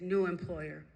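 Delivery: lightly voiced inner voice of God; measured, understated voice from within; a hint of solemn divine pronouncement; voice from deep within. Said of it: "this voice coming from deep down within".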